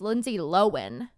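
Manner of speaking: Lohan said LO-wen; corrected pronunciation. Shown as a demonstration. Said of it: "like, W E N".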